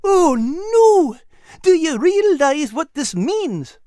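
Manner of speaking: alarmed Al. Acted. Al staring at the bank entrance in alarm, high and panicked. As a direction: cry out in sudden alarm.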